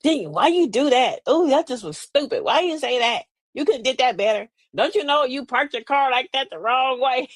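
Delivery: a hint of a condescending critic. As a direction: imitate a know-it-all picking at you, lightly voiced. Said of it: "You're gonna come with a condescending tone".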